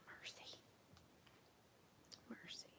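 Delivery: breathy muttered exasperation; exasperated whisper. Real, not acted. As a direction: sigh the word out in frustration. Struggling with threader.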